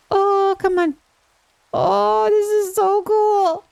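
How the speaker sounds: excited delight. Real, not acted. Excited over foxes.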